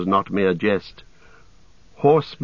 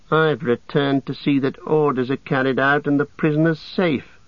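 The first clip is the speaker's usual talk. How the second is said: higher, sneering orc voice; sly orc voice; 5 semitones higher than usual. A narrator's reading. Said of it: "answered Grishnak".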